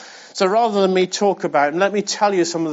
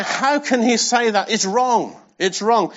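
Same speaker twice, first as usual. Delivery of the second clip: mild mock protest, pitched up at the start; arguing sharply; 4 semitones higher than usual. Jews arguing over Jesus' hard words, mildly protesting. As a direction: object as an indignant crowd would, lightly acted. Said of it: "began to argue sharply".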